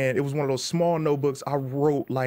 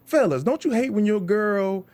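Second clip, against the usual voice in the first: nervous joke opener; 5 semitones higher than usual. Retold or imitated. Comic asking the fellas in the crowd, higher stage voice.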